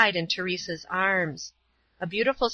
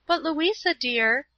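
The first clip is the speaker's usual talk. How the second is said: higher, mildly tearful pleading; a touch of tears in the voice; through tears; 7 semitones higher than usual. A narrator's reading. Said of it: "said Paula in the midst of her tears".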